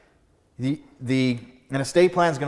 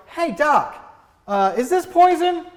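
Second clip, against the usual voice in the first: much higher, innocent patient voice; curious patient; 5 dB louder, slower than usual. Retold or imitated. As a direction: ask the doc like a naive client. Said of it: "would you rather come in and go".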